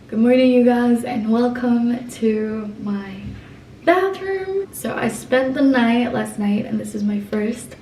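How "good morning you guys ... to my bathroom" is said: excited greeting. Real, not acted. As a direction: greet viewers with big energy. Vlog morning greeting to viewers.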